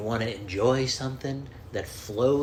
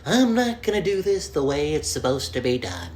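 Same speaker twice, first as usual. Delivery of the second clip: Jack Nicholson; 4 semitones higher than usual. Retold or imitated. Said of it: "Was that Jack Nicholson?".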